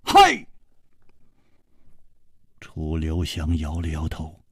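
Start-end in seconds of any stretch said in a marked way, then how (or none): 0.0-0.5 very high, loud alarmed cry; high-pitched panicked exclamation; frantic shout. Acted. Companion frantic at sudden poisoning.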